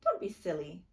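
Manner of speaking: loud, sharp snap; snapping. A narrator's reading. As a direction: snap at her little sister. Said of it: "Naya snapped".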